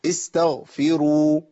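استغفروا with the final waw drawn out long and slow; very slow recited استغفروا; lengthened waw. Shown as a demonstration. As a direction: stretch the ending of استغفروا. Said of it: "الواو بعد الراء المضمومة".

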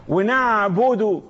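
ونعبد slowly, holding the ع; slow demonstration of sounded Ayn in ونعبد; voiced Ayn. Shown as a demonstration. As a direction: linger on the throaty ع in ونعبد. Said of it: "ديت بحة ولا بحة".

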